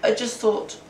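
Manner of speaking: halting, with gaps between false starts; stammering. A narrator's reading. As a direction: stumble hesitantly into an excuse. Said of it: "he stammered".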